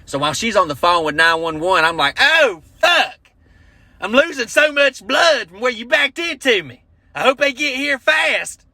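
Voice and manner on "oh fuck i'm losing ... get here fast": high hammed-up wailing victim; fake injury show. Comic faking injury during the call, hammed-up high wail. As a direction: overact the bleeding victim, way up high. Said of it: "might as well put on a show".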